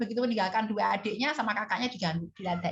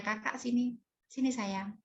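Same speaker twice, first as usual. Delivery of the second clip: softest voice; 3 semitones higher, slower than usual. Retold or imitated. Mother gently calls troublesome daughter to her lap, tender. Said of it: "dengan suara saya yang paling lembut".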